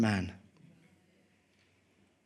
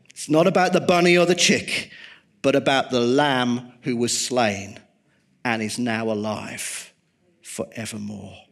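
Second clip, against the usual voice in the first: emphatic repeat. Shown as a demonstration. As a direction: say it again so it sticks, punching it out. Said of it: "Let me just say this".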